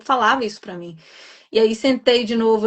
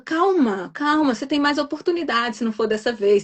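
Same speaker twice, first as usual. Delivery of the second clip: reassuring friend; 3 semitones higher than usual. Retold or imitated. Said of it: "tentando me acalmar".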